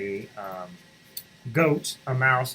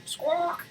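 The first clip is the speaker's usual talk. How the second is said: squawk; 5 dB quieter than usual. Acted. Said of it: "said the chicken".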